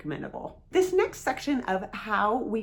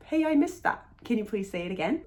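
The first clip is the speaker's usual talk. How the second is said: said with a smile; faster than usual. Shown as a demonstration. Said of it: "You can say it with a smile".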